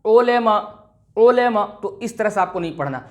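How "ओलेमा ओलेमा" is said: ओलेमा with 'o' and 'e' for 'u' and 'i'; majhul, wrong way. Shown as a demonstration. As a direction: open the vowels in ओलेमा. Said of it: "मजहूल तरीका". (ओलेमा, मजहूल आवाज़ में)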